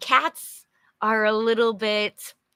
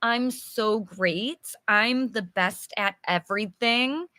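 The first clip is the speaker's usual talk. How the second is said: mock bragging. Shown as a demonstration. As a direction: show off like you think you're the best. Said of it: "Arrogant is more like bragging".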